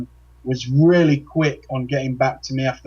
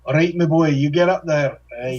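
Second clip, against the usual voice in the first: put-on Scottish accent. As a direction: toss it off in a playful Scottish accent. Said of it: "That's, that's pretty good accent".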